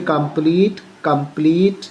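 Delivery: "कंप्लीट" with a long ee in the last syllable. Shown as a demonstration. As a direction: model "कंप्लीट" twice, holding the ee. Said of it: "बड़ी ई होता है". ("कंप्लीट" में बड़ी ई का उच्चारण)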